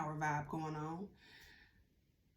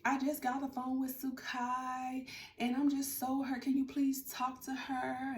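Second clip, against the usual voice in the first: mock crying mother; 5 semitones higher, slower than usual. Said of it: "she was crying and was like".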